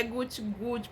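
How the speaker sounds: quiet imitated gulps; little repeated glugging noise; gulping sounds. Shown as a demonstration. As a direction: softly mimic drinking in gulps. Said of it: "Assim, de golada".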